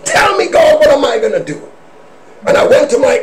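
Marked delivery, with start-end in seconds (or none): 0.0-1.6 raised, pleading call to God; crying out to God. Retold or imitated.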